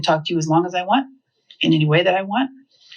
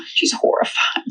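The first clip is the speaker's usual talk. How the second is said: mock-horrified, breathy and high; hammed-up shock at an insult; horrified gasp. Acts the lady's horrified gasp.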